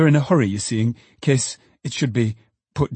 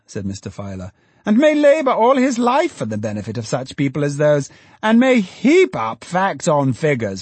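put-on high, fussy, scandalised old economist; indignant Filer; 5 semitones higher, 3 dB louder than usual. A narrator's reading. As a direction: sputter with outrage, pitched high. Filer voiced in narration.

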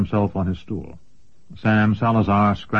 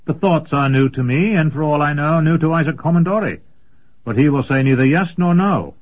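put-on higher, earnest young man; eager young apprentice; 7 semitones higher, 4 dB louder than usual. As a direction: explain with eager conviction.

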